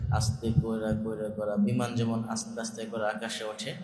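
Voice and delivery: soft demo. Shown as a demonstration. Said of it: "প্রথমে আস্তে শুরু করেছি".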